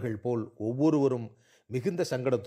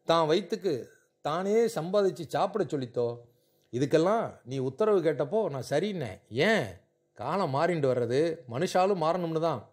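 lightly voiced grandmother, often raised in pitch; impassioned pleading grandmother; 4 semitones higher than usual. Grandmother defends the girl to her orthodox son, impassioned pleading. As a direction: plead in short, emphatic, paused phrases.

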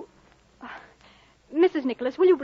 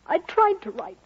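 usual speaking voice

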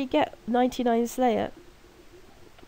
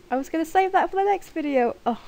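half-laughing, higher and louder; 8 semitones higher, 4 dB louder than usual. Real, not acted. Laughing at herself for saying her name on video. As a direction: giggle through the line.

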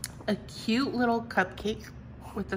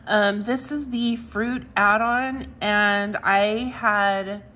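excited; 5 dB louder than usual. Real, not acted. Showing her own cards proudly.

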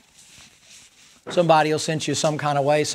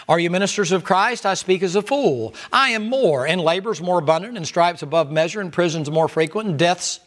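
scripture reading. Acted. Reading scripture with rising fervour.

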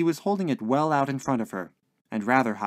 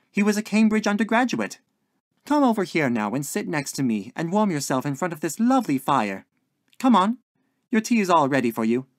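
higher, louder doting hostess; insistent, coaxing landlady; 5 semitones higher, 5 dB louder than usual. A narrator's reading. Landlady correcting lodger and calling him to tea, insistent. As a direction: dismiss it sweetly, then coax him over.

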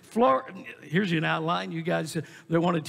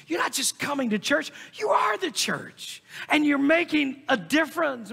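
building preacher shout; 6 semitones higher than usual. Acted. Preacher shouting to the congregation that they are the church, building. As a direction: drive it home to the congregation, climbing to a shout.

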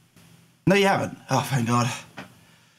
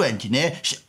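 ordinary talk, nothing marked

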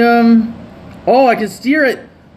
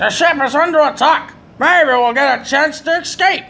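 higher mock-heroic dialogue read; mock dramatic read; 6 semitones higher than usual. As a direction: ham up the game line. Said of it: "Who the hell says it like that?".

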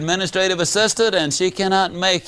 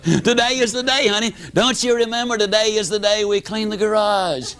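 cheery wife; 3 semitones higher than usual. Retold or imitated. Wife announces garage cleaning.

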